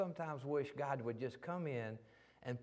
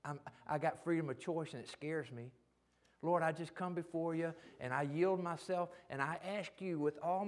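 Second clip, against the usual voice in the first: modeled prayer. Shown as a demonstration. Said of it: "come before God and say".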